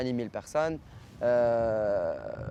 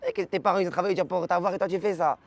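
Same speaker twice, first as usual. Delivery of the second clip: mock scolding; 4 semitones higher than usual. Acts out his scolding punchline.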